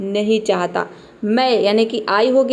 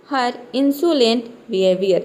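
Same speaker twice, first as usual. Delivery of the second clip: slow model sentence; much slower than usual. Shown as a demonstration. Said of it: "इसको क्या pronounce करेंगे?".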